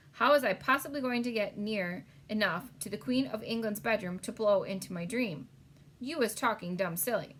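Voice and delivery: a hint of a gentle giant, eager; big friendly giant voice. BFG's speech in read-aloud story.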